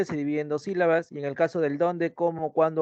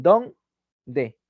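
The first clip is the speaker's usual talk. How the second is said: "don", a pause, "de", each syllable apart; syllable split; 3 semitones lower, 5 dB louder than usual. Shown as a demonstration. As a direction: separa "don" y "de" con una pausa clara. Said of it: "El dónde son dos sílabas". (sílabas "don" y "de" separadas por una pausa)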